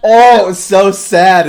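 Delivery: loud, high, slow wail; hammed-up sorrowful cry; dramatic lament. Real, not acted. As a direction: draw it out in over-the-top grief. Lamenting the sad scene.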